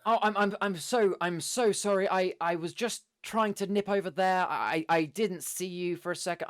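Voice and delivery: high, hammed-up flustered reassurance; showy apology. Adventurer causing a distraction after the crash, showy apology. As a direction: apologise for all the crowd to notice. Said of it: "trying to basically peacock at this point".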